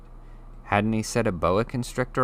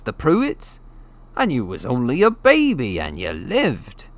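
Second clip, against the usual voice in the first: big gentle giant telling a grim tale; rough West Country giant, hushed awe; Hagrid's voice; 3 semitones higher, 3 dB louder than usual. Acted. Narrator voices Hagrid telling story.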